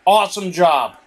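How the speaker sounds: dry, mock praise, pitch up; sarcastic. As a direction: say it with sarcasm, not meant.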